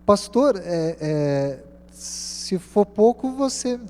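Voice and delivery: high, halting, choked-up plea; imitated tearful stammer. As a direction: act out struggling to speak through tears. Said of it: "eu comecei a chorar".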